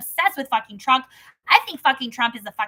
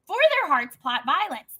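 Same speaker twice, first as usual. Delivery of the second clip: scripture reading. Acted. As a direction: read it out measured and steady. Reads Proverbs chapter aloud.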